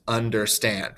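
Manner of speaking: "understand" as under-STAND, end weighted; stress on last syllable. Shown as a demonstration. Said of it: "more emphasis on the end".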